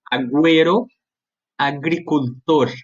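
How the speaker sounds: Agüero and agricultor with a hard G as in Portuguese; hard G sound. Shown as a demonstration. Teacher showing students a hard G. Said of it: "eu pronuncio como se fosse um G normal".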